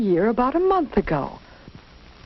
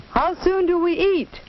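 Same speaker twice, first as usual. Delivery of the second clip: put-on eager child; 9 semitones higher than usual. Eager child asks about dinner.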